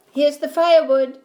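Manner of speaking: put-on loud, high boyish shout. A narrator's reading. Boy shouts to his mother with the egg, loud and high. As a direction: call it out, proud of the egg. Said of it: "shouted Jack".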